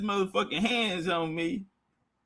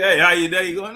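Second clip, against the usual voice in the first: masseuse voice; 4 dB louder than usual. Retold or imitated. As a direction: greet him like the massage lady.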